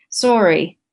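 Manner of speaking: uncommitted, matter-of-fact sorry; flat apology. Retold or imitated. Husband apologizing to wife after scramble for seat, flat. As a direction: toss off a flat, half-meant apology.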